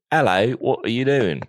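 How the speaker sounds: put-on Australian accent. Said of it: "Let me get an Australian".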